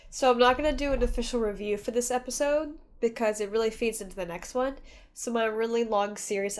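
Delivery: stuffy nose from crying; blocked nose. Real, not acted. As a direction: talk through a blocked nose. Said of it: "I'm so stuffed up, guys".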